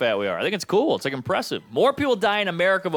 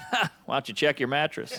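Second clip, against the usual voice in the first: snarky mom; 4 dB quieter than usual. Retold or imitated. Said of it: "She's like".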